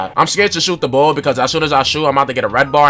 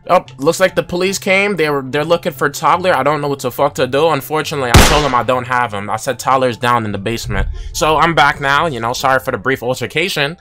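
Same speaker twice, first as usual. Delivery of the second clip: usual speaking voice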